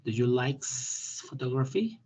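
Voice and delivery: each word spelled out slowly; slow it down so they hear every sound in "photography"; deliberate teacher model, drawn out; slow careful pronunciation. Shown as a demonstration. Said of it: "escuchen mi pronunciación".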